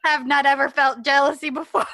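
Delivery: loud, stilted machine voice; mock robot voice. Co-host jokes his wiring fails, mock robot voice. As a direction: play a malfunctioning robot.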